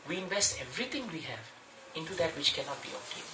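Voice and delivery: quiet scriptural quote; quoting scripture. Shown as a demonstration. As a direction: drop the voice to quote the Bhagavatam. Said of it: "Bhagavatam says".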